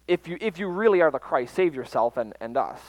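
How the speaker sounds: the criminal's loud jeering challenge; mocking taunt. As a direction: throw the taunt up at the cross.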